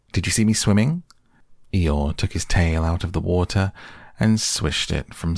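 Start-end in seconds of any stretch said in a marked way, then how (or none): 0.1-1.0 1 excited Roo. A narrator's reading. Roo calling from the water.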